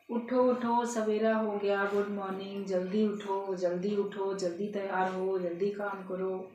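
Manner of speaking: gently coaxing someone out of bed; affectionate parrot's morning call, lightly acted; loving wake-up. Good parrot waking its master, lovingly. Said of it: "बड़े प्यार से अपने मालिक को उठा रहा है".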